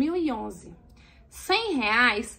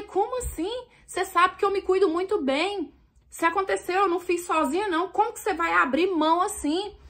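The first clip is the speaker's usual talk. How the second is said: indignant high protest; 6 semitones higher than usual. Retold or imitated. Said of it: "E eu falei".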